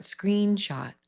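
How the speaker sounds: screenshot with the voice going up on screen and down on shot; rise then fall. Shown as a demonstration. Teacher demonstrating compound stress, voice up then down. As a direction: pitch climbs on the first half, drops on the second. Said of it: "my voice goes up, down".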